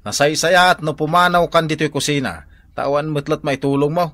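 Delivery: loud scolding. Acted. Husband shoos wife from kitchen.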